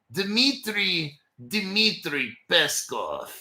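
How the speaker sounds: slow mock Russian accent. Host showing off the spokesman's name in a mock Russian accent. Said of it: "that's my Russian accent".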